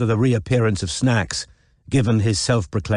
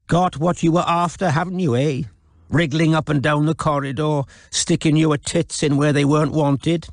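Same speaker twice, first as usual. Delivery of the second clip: sneering attack; 6 semitones higher than usual. A narrator's reading. Wynne mocks and accuses Robin.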